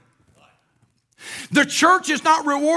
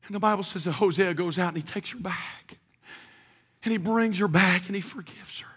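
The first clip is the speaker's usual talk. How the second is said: lower, much softer, near whisper; hushed storytelling; 5 semitones lower, 6 dB quieter than usual. Acted. Preacher softly telling of Gomer's unfaithfulness. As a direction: draw them in quietly.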